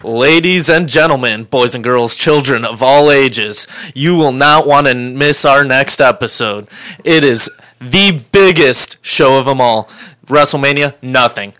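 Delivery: ringmaster. Acted. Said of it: "that promo".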